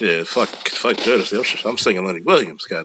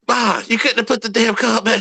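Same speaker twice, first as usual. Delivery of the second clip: mock exasperated complaint; 11 semitones higher than usual. Complaining to mom, quoted.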